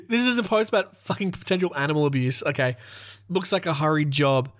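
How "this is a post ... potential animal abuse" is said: words squeezed out through a laugh; laughing in disbelief. Real, not acted. Host reading a petty complaint under an abuse post, laughing. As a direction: laugh at how absurd the comment is.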